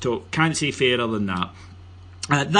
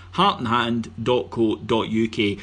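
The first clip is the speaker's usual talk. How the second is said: slow, clear web address. Shown as a demonstration. Host repeats the website slowly for listeners to note. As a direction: spell out "Heart and hand dot co dot U K" slowly, every word separate. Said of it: "Nice and simple".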